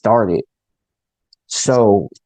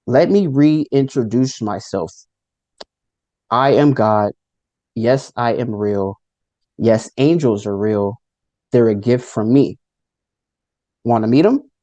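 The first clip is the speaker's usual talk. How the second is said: a hint of divine authority, unhurried; powerful male God. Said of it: "the power in his voice was extremely".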